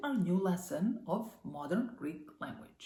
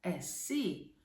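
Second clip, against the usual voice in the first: Εσύ with the final σύ long and stressed; stress on last syllable. Shown as a demonstration. Teacher demonstrating the accent, Εσύ stressed on σύ. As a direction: say Εσύ as eh-SEE, leaning on SEE.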